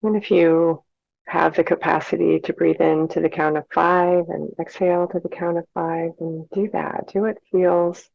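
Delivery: calm, unhurried meditation guide with long pauses; measured, soothing breathing instruction; guided meditation. Real, not acted. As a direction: lead listeners gently through their breathing, leaving space between phrases.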